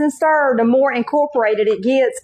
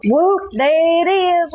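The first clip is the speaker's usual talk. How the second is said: stretched out and higher, "Whoop" drawn long; excited whoop; 6 semitones higher, much slower than usual. Real, not acted. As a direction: show off the finished dog with a slow, proud whoop. Excited reveal of finished hot dog.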